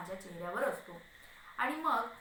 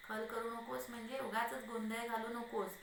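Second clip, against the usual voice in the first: usual speaking voice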